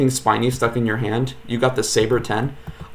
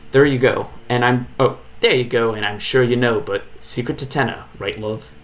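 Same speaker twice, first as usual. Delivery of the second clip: put-on British accent. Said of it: "can't decide whether they are British".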